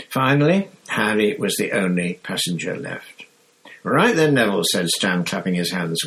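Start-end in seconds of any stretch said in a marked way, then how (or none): 3.8-4.6 high, lively Cockney bus conductor; bright, high cheeky lad; Stan's chirpy voice. Acted. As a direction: chirp it out like a cheery young conductor. Stan voiced in audiobook.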